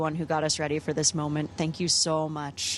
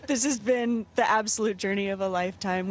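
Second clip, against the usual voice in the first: nervous laughter; 4 semitones higher than usual. Real, not acted. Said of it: "you can tell I'm new".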